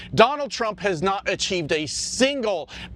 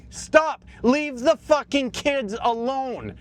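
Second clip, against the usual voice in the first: exasperated shout; 6 semitones higher than usual. Real, not acted. Ranting at Republicans.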